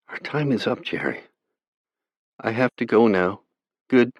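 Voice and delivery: put-on a young girl begging her brother not to despair; pleading girl. A narrator's reading. Sister pleading with her brother over the radio, young and gentle.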